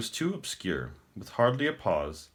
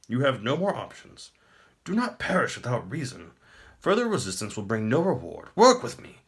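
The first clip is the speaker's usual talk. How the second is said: higher, louder and grand, a pleased tyrant; smug emperor; 6 semitones higher, 5 dB louder than usual. Acted. The Emperor taunts the captive prince, smug and grand. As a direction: speak down to a beaten foe.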